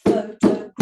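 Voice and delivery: pho-to-GRAPH-ic in loud beats; stress on third syllable. Shown as a demonstration. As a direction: punch GRAPH in photographic. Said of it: "Can you see where the stress changes?".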